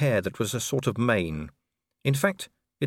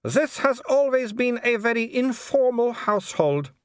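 high, polite baroness voice with a thin smile; a smiling aristocrat who means none of it; cool hostess smile; 12 semitones higher, 3 dB louder than usual. A narrator's reading. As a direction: welcome him coolly through a fixed smile.

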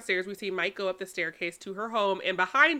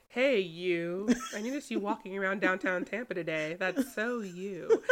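creepy stalker; 4 dB quieter than usual. Acted. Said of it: "he's pulling a Joe Goldberg".

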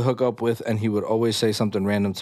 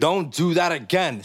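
higher, slow, emphatic telling-off; mock scolding; 6 semitones higher than usual. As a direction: play up an exaggerated reprimand, pitched up and drawn out. Host reenacts the scolding boyfriend.

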